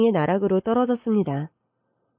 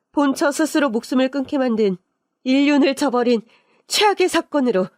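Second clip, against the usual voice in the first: higher-pitched, emphatic public accusation; indignant denunciation; 5 semitones higher than usual. Acted. Denouncing the affair to reporters, indignant. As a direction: drive each accusation higher.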